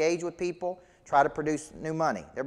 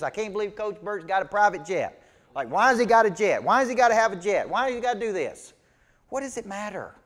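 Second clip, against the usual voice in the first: mock customer fit; 4 semitones higher, 3 dB louder than usual. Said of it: "customer just had a fit".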